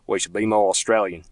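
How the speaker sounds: put-on Australian accent; lightly hammed-up Australian accent. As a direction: say it like a mock Aussie.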